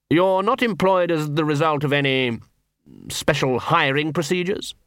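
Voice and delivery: languid, as if light-headed; woozy patrician. Acted. Patrician questions Nobby.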